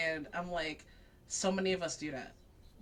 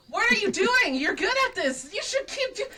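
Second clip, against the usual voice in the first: much higher and louder, urging a friend on; encouraging shout; 11 semitones higher, 7 dB louder than usual. Retold or imitated. Reiki yelling at Longa to keep skating, excited shout. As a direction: shout it at him to keep going. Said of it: "But Reiki's like".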